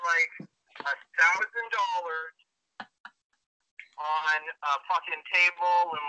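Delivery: tinny voice over a speakerphone; muffled speakerphone call; speakerphone sound. Real, not acted. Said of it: "if the sound is a little off".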